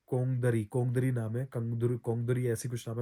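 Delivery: trying out "कोंगदरी", then "कोंगदुरी", unsure of the middle vowel; unsure pronunciation. Real, not acted. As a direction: stumble through "कोंगदरी", switching to "कोंगदुरी". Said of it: "मैं नाम pronounce नहीं कर पा रहा हूँ".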